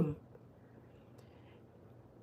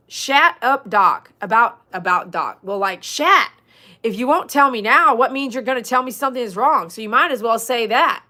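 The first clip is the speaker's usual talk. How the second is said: annoyed outburst; 2 semitones higher, 4 dB louder than usual. Acted. Viewer's imagined reply to a doctor, annoyed and louder. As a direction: tell the doc off, half joking.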